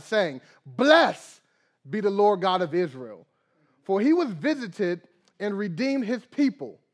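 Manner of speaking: bijbeltekst plechtig voorgelezen; scripture reading. Acted. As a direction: read it out like scripture to the church. Reads scripture aloud.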